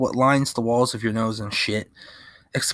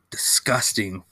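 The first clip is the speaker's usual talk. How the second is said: disgusted whisper; 3 semitones lower than usual. Real, not acted. Disgust at Caribou beer.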